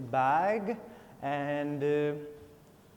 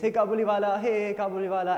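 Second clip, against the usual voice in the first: put-on loud, high, joyful call from a child; 5 semitones higher, 7 dB louder, faster than usual. Little Minnie calling to her old friend, loud and joyful. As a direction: call out to him like an excited little girl.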